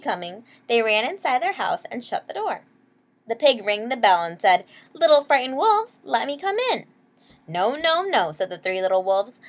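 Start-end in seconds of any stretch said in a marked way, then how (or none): 4.9-6.9 loud, high wheedling pig at the door; big bad pig calling. 7.5-8.3 high, loud cry of no; wolves refusing. Acted.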